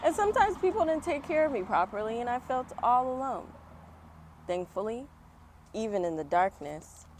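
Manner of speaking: lively first-person storybook reading; story narration. Acted. Reading Oprah's story aloud to children, storybook voice. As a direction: read it like story time for kids.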